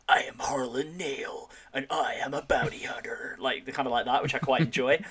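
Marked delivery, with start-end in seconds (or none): 0.1-3.4 put-on American accent. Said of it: "his attempt at a sort of American accent".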